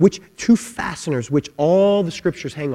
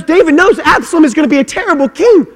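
much higher and louder, stretched out; emphatic shout; 13 dB louder than usual. Acted. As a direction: proclaim it as a crescendo. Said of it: "repeated with different force".

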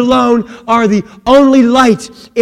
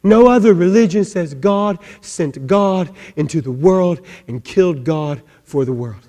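ordinary talk, nothing marked

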